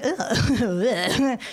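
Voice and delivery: drawn-out mock gag of disgust; disgusted ugh. Listener reacting to the hunting dad's story, disgusted groan. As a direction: groan in exaggerated revulsion.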